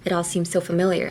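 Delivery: "It all seems so familiar" run together quickly; fast linked reading. Shown as a demonstration. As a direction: flow right through without spaces. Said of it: "I read it like".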